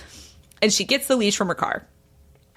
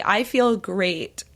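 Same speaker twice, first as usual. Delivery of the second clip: woozy; much slower than usual. Retold or imitated. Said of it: "like, woozy".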